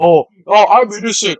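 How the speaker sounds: put-on innocent protest; mocking imitation. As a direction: parrot the claim back teasingly. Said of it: "you say you're innocent".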